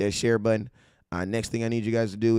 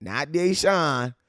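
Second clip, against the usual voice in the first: slow correction; 4 semitones higher, much slower than usual. Shown as a demonstration. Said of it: "spelled the way".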